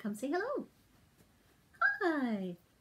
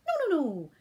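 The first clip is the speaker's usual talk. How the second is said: louder firm no no no; loud scolding no; 6 dB louder, faster than usual. Acted. The reader corrects the dog loudly. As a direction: put your foot down.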